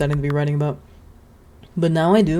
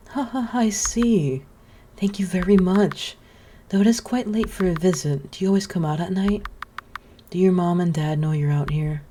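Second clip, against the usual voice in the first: lightly voiced gentle witch; 3 semitones higher than usual. Witch greeting the scarecrow boy, lightly voiced kindly.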